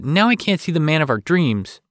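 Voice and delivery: high, loud protest. A narrator's reading. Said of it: "she protested".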